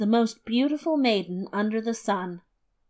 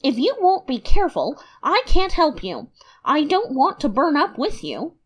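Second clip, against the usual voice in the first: raised, exasperated scolding; angry; 5 semitones higher, 3 dB louder than usual. Acted. Boy scolding the burning dead men, angry. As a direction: scold them, higher and louder. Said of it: "This made him angry".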